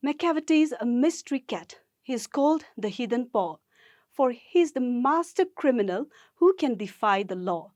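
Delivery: brisk, lively reading of a cat poem. Acted. Teacher reading Macavity poem aloud to the class, brisk and lively. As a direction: read the verse out with pace and bounce.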